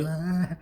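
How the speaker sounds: short imitated tongue-out noise. Showing how one guy looked, mock tongue-out "ah". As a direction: mimic him with the tongue stuck out. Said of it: "even sticking his tongue out".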